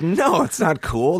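slow, high, drawn-out scolding no; firm club staff. Retold or imitated. Club staff telling the comic sleeping outdoors is wrong, slow high scolding. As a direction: stretch it out, scolding him. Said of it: "They're like".

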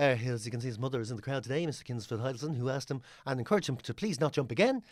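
hushed broadcast patter, a touch of drama; lightly voiced TV ski commentator; imitating commentator. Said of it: "And then it's like".

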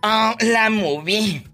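very slow, affected "la movie"; mock pretentious "movie". Host mocking emigrants saying "movie", slow affected mimicry. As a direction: drawl it like a snob. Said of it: "y ahora dicen".

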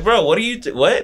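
high-pitched, baffled retort; stunned, high "what?"; incredulous. Retold or imitated. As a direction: react in disbelief, breaking off mid-question. Retold stunned reaction to friend.

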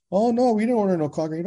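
high-pitched retold answer; acted doorstep brush-off; imitated homeowner's reply. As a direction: lift the voice lightly for the other man.

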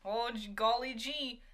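slow, corny golly-gee voice; lightly voiced aw-shucks kid; wholesome 1950s kid. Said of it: "And then they're like".

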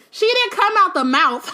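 laughing through the words; giggling as she says it. Real, not acted. Laughing while reading.

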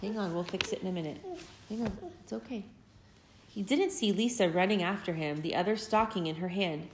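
put-on lively storybook read-aloud for little kids; gentle, animated story reading; reading to children. A narrator's reading. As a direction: tell it like a bedtime picture book. Parent reads picture book aloud.

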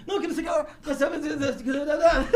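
high, soft laughing mock protest; imitated protester. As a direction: protest in a high put-on voice, giggling. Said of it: "ele vai assim".

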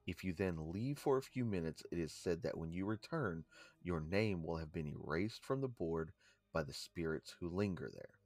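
measured read-out of a legend; story read-aloud. Real, not acted. Co-host reading a haunting legend to listeners, read-aloud delivery. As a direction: read it out like a ghost tour entry.

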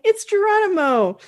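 loud panicked yell, high and slow; scared cartoon yell. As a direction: shout it out running away in fright. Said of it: "runs away yelling".

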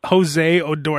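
slow, measured full name; deliberate naming. Shown as a demonstration. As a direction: lay out each part of the name slowly. Spelling out the disputed name.

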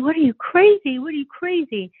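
high-pitched mock yell of an upset mother; retold mother screaming. Mother confronting drunk father tearing the dress, mildly screamed. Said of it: "my mother came in screaming".

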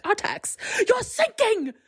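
very high mock cry in faux British; Atreyu's faux British accent. Boy warns his sinking horse, faux British accent. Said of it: "weird, um, faux British accent".

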